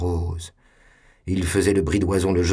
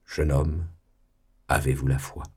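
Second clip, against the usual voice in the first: solemn; 4 semitones lower than usual. Acted.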